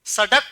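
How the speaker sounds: सड़क with a hard retroflex ḍ stop; no flap in सड़क, a plain ḍ. Shown as a demonstration. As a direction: say सड़क as "sa-ḍak", tongue stopping firmly. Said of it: "उच्चारण में फर्क आया".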